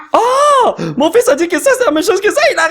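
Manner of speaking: laughing. Real, not acted. Laughs at son's remark.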